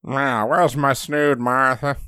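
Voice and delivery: put-on slow, fussy old man call; lightly voiced old man. Old man asking wife.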